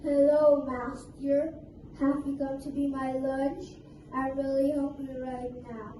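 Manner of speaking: a hint of a hungry beast; hungry crocodile.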